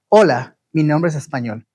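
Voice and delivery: Hola, mi nombre es Español rattled off quickly; quick native-speed Spanish. Shown as a demonstration. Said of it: "Castellano Copa".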